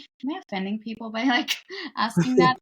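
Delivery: fast, half-laughing self-doubt; quick worried aside. Retold or imitated. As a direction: rush it like a nervous afterthought. Acted worried quote to herself.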